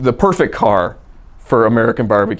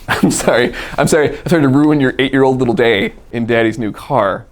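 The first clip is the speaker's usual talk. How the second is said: mock apology; 2 semitones higher, 4 dB louder than usual. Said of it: "So I said".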